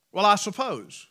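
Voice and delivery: "Well, I suppose" with a hesitant question in the voice; unsure, hedging "I suppose"; doubtful tone. Shown as a demonstration. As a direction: let doubt hang on it. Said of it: "you've got a question mark now in your voice".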